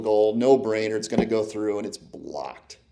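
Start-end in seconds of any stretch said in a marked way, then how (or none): 1.8-2.8 much softer, slow, dropping low; deflated. Real, not acted. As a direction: let the bad news sink in. Climax of the losing story.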